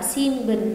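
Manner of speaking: "xin" closed on n, not m; unassimilated N. Shown as a demonstration. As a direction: keep a clear n in "xin" before "bần". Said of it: "không đọc là xin bần". (đọc "xin bần" giữ âm n)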